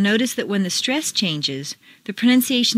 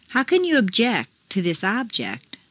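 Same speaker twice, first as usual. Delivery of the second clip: first "object" as obJECT, last as OBject; contrasting word stress. Shown as a demonstration. Teacher reads exercise, contrasting obJECT with OBject. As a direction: stress obJECT for verb, OBject for noun. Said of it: "Mark the intonation".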